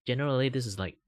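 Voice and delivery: a light Malaysian English lilt, quick; lightly Singaporean-Malaysian English delivery; Malaysian English accent. Shown as a demonstration. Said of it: "if I want to sound like Asian people".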